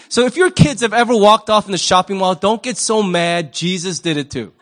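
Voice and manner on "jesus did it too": said through a chuckle; laughing. Real, not acted. Pastor reassuring parents with a chuckle. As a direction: let the joke laugh out.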